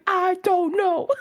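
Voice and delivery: high, slow, half crying with laughter; laughing whine. Retold or imitated. Answering her sister helplessly, slow, high and laughing. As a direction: drag it out in a laughing whimper.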